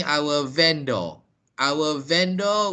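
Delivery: VENDOR said "VEN-dor", with a full ending; wrong pronunciation. Shown as a demonstration. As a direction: demonstrate VENDOR with a clear "-dor". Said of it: "they pronounce the word wrongly".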